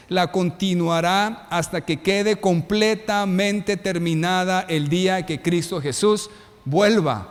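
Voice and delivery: slow, solemn scripture reading. Acted. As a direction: read the verse slowly and reverently. Reads Filipenses scripture aloud. (lectura bíblica lenta y solemne)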